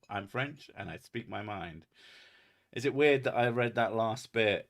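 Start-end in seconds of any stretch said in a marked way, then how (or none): 0.1-1.8 bad French accent. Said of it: "in a John Cleese bad French accent".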